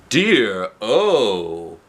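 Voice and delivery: slow, puzzled question; lightly voiced Topsy-Turvy. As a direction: ask kindly, words back to front.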